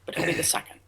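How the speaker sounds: fısıltı gibi; ağzının içinde söylenen espri; whispered aside. Real, not acted. Quiet aside punchline.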